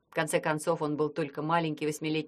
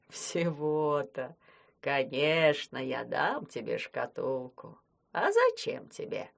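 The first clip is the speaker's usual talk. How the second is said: put-on relieved old man; 3 semitones lower, slower than usual. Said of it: "с облегчением рассмеялся".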